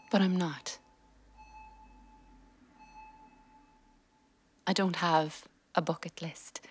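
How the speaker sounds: subdued inner monologue read; reflective voiceover. A narrator's reading. Wife's voiceover reflecting on illness, subdued.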